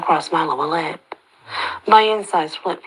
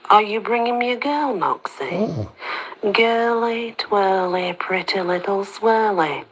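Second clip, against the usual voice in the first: creepy sing-song; 4 semitones higher than usual. Acted. Reggie teasing from his cage.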